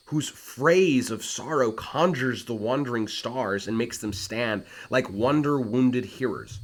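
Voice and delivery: lightly voiced Hamlet stepping forward; slow declaiming. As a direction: weigh every phrase like a king. Reads Hamlet's challenge.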